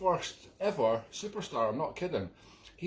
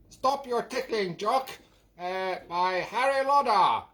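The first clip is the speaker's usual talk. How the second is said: put-on higher, announcing an old record title; record announcer; 4 semitones higher than usual. Imitating the announcer at the start of Ellison records, higher. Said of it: "and it goes".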